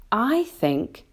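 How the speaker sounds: thoughtful, hesitant start; said slowly. A narrator's reading. James considers the earthworm's proposal, slowly. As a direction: weigh it up before going on. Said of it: "James said slowly".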